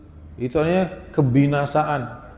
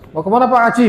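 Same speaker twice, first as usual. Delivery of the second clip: mock Javanese greeting; 8 semitones higher, 4 dB louder, much faster than usual. Imitating Javanese villager greeting.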